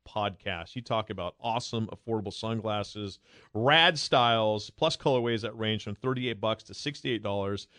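upbeat sponsor read; host reading the sunglasses ad. Acted. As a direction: sell it, friendly and smooth. Reads sponsor ad.

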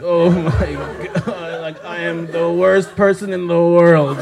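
slow laughing groan of shame; laughing self-blame. Retold or imitated. Berating herself about the blackout, laughing. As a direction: laugh through the embarrassment.

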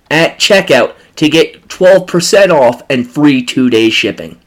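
loud, upbeat sponsor read. Acted. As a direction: sell it like a radio spot. Host reads sponsor ad.

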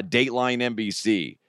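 ordinary talk

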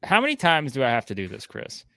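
wrestling promo. Pretend. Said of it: "to cut a promo here".

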